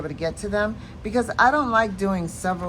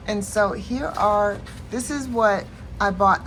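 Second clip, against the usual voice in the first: laughing; 3 dB louder than usual. Real, not acted. Laughs at forgetting focus word.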